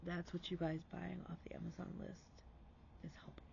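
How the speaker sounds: soft, breathy aside to viewers; a hushed, heartfelt thank-you; whispered thanks. Real, not acted. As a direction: lean in and whisper it.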